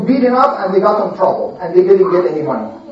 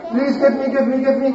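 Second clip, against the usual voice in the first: whiny soft begging; 3 semitones higher, 5 dB quieter, faster than usual. Acted. Beggars plead for food.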